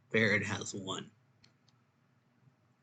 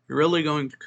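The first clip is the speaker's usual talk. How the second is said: higher, louder mock incredulity; incredulous objection; 5 semitones higher, 7 dB louder, much faster than usual. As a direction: act out offended disbelief. Acted offended reply to weirdo.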